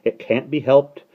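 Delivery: high, loud starling voice; gruff bird. A narrator's reading. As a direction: console brusquely and condescendingly. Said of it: "said the starling gruffly".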